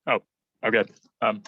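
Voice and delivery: talking while still chewing; words round a bite of food; mouth full. Real, not acted. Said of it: "sorry, I was eating something".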